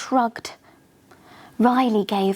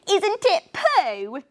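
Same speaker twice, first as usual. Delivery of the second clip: teasing; 9 semitones higher, slower than usual. Acted. Luxie teasing, giggling.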